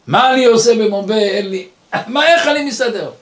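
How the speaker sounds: worried questions climbing in pitch; a touch of helpless distress; mild retold panic. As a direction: act out being stranded and at a loss. Retold stranded, penniless, crying in Mumbai.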